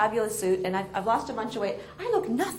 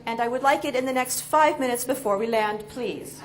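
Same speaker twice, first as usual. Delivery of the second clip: impatient demand. Retold or imitated. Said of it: "I was sitting there going".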